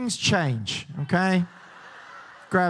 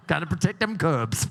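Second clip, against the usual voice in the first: lower-pitched mock North Carolina accent; 4 semitones lower than usual. Host repeating the joke about cubs, fake North Carolina accent. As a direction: put on a bad North Carolina twang.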